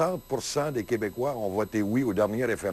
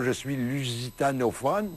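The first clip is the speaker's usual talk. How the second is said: mock quote. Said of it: "il dit pas".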